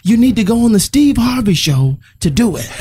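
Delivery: high, mildly yelled command; imitated yelling dad. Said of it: "he yells out at us".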